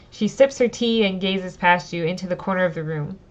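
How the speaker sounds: reading the story text aloud, steady and clear; storyteller read; story narration. Acted. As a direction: narrate the scene for the audience. Reads the game text aloud.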